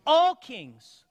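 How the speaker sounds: loud, punched answer to his own question; preacher shouting the answer back to the pews; called-out answer. Acted. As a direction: belt out the answer for the church. Call and response with congregation.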